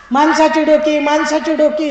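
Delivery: loud market cry; hawker's call. Acted. Minister selling human heads, loud cry. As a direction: call to passers-by.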